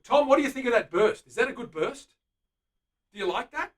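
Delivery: high, loud eager questions to Tom; excited asking. Real, not acted. Painter eagerly asking Tom about the burst, excited. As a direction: pitch it up and beam at him.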